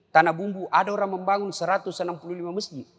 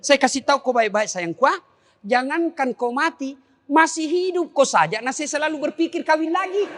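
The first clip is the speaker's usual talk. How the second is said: teasing husband; 9 semitones higher than usual. Retold or imitated. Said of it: "Saya bilang".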